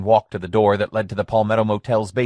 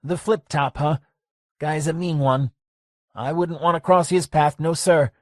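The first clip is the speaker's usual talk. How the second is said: lightly voiced old barkeep, wary; a hint of a cagey old man; old bar owner voice; 7 semitones higher than usual. Lester warns Gracie about a mean guy, wary.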